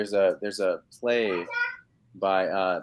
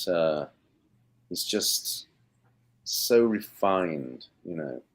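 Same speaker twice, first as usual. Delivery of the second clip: put-on unhurried, measured British accent with a hushed start; the speaker's British accent. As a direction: speak as the thoughtful Englishman in a British accent. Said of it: "talking with this accent".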